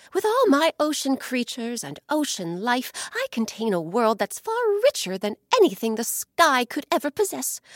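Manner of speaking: a lightly voiced proud ocean, rising to a threat; angry ocean. Ocean boasting and threatening the sky, building up. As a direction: build from boasting to a vow of revenge.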